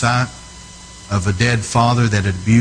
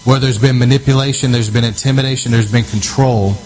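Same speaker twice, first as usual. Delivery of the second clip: fervent prayer; 2 semitones higher than usual. Real, not acted. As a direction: pray it out with urgency and authority. Leads loud prayer over region.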